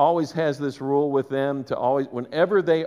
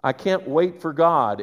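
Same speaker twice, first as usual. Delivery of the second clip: hot-headed insistence; 4 dB louder than usual. Retold or imitated. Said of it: "he was like".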